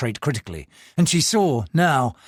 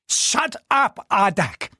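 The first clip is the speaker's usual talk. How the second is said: angry snap; 7 semitones higher, much slower than usual. Acted. Angry mistress snaps.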